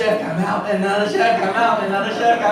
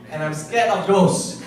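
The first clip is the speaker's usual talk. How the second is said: laughing. Real, not acted. Joking confession to receptionist.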